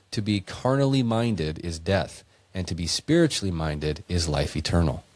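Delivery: put-on measured, solemn reading of an old verse; scripture reading. Friend reading verses to a podcast co-host, solemn scripture read. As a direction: read it out like holy writ.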